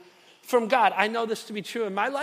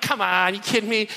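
disbelieving; 5 dB louder than usual. Retold or imitated. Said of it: "And I'm like".

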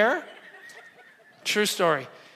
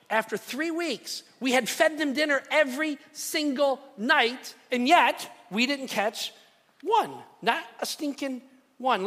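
exasperated; 5 semitones higher than usual. Acted. Exasperated build, higher, slow.

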